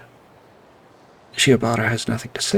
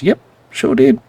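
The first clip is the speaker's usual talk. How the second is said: 1 cocky admission; 10 semitones higher, 7 dB louder than usual. Acted. Akiyama admits plan.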